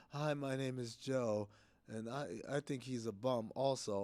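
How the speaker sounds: soft, unhinged calm with panic underneath. Show how a man sounds giving his name, imitating a serial killer's unhinged calm. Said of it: "He has the unhinged calm of a serial killer".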